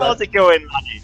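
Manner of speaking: hammed-up, high-pitched Irish voice; attempted Irish accent. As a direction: play the stage Irishman, starting high and falling. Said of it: "X P for doing that voice".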